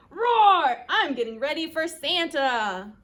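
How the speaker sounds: boisterous dinosaur voice; dinosaur roar. Acted. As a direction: play an excited little dinosaur. Voices Dinosaur getting ready.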